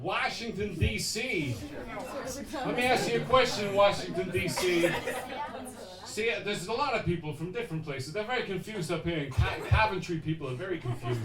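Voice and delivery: mock American chat with the crowd; lightly faked American accent; put-on American accent. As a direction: work the crowd as a pretend American. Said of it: "do you believe my accent".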